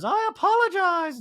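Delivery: high, slow mock Dorit; curt high apology as Dorit; Dorit impression. Recapper mocking Dorit's apology, high voice. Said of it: "Dorit goes".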